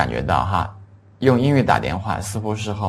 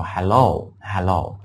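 slow model hello; much slower than usual. Shown as a demonstration. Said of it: "在英语里面说".

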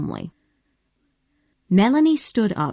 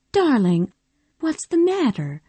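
gently; 7 semitones higher than usual. Acted. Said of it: "she said gently".

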